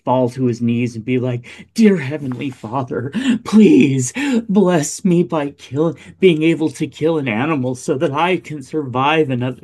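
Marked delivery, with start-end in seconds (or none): 1.8-9.6 mock prayer. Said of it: "doing performative prayer".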